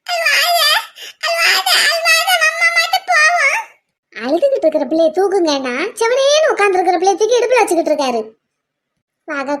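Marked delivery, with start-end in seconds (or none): 0.1-3.6 tearful consoling. Acted. Child consoles crying baby, tearfully.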